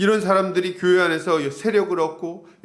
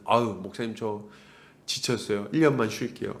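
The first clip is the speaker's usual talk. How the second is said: lower, softer worn-out plea to the pastor; lower, softer mock-exhausted churchgoer begging the pastor for rest; tired pleading; 7 semitones lower, 5 dB quieter than usual. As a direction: sound drained, asking for a year off. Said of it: "연말만 되면 또 이런 얘기들".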